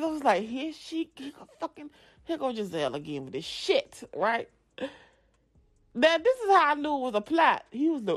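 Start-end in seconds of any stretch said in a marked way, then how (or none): 0.4-4.0 muttered annoyance. Retold or imitated. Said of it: "I was furious".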